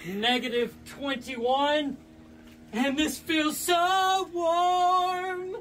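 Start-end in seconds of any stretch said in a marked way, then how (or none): 2.7-5.6 sarcastic singsong. Real, not acted. Sarcastic about freezing water.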